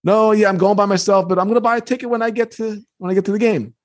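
put-on high, hurried-sounding nervous kid. Kid insisting to a scary stranger he'll buy a ticket, nervous. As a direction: play a flustered kid covering up. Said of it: "And I'm getting nervous".

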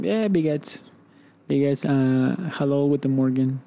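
lightly put-on German accent for the greetings; mock German phrases. Shown as a demonstration. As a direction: show off a few words of German, half-joking. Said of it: "¿Aprendiste alemán?".

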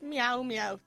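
playful meow sounds; cat meowing imitation. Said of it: "I'm going to go like".

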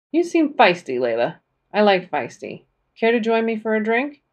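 high and loud teasing on feisty; flirty playful man. Acted. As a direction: play up the flirt. Dean invites her for a drink.

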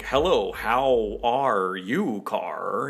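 hammed-up posh English greeting, very slow; mock posh English. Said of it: "Americans were like".

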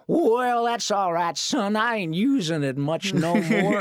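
lightly voiced old drawl; Pat Buttram impression. A hint of a Pat Buttram drawl. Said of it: "he talks like that".

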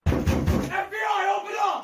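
slow drawn-out FBI call at the door; grave federal agent. Retold or imitated. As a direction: boom it through the door, slow. Agents raiding at dawn.

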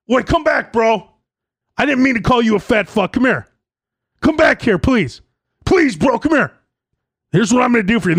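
high, begging hard-sell voice; mock desperate salesman calling you back; pleading salesman. Salesman pleading with a walking-away customer, high and begging.

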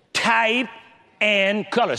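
Type and color set apart, each word pushed out after a pause; preacher drills Type and color into the congregation, stressing both. Shown as a demonstration. Preacher to congregation, Type and color stressed with pauses. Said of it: "Now, I want you to get this".

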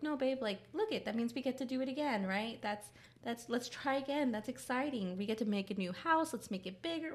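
high, cheerful coaxing; upbeat encouraging mom. Retold or imitated. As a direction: coax a child sweetly. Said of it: "And I'm like".

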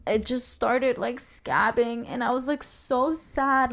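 close to crying. Real, not acted. Telling listeners about the rabbit's scabbing, close to crying. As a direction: voice lifting as the upset builds. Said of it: "I'm gonna cry right now".

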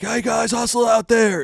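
high, loud hammed-up coach call; generic coach shout. Coach yelling to players in generic footage, high loud pep call. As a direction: bark a stock pep line at the team. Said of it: "The league used to just kinda show generic".

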